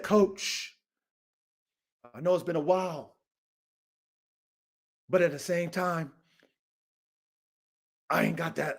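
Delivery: soft, hushed begging voice, mock humble; meek pleading. Retelling a friend begging the coach, soft pleading. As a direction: quietly plead like a man asking a favor.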